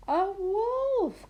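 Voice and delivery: high, loud, laughing shout; loud high yell of "wolf"; calling out. A narrator's reading. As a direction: shout the correction together. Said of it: "call the kids together".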